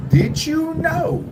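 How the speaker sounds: very high, slow, stretched-out question; drawn-out teaser. Real, not acted. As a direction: stretch it out and soar up in pitch. Teasing a fact to viewers.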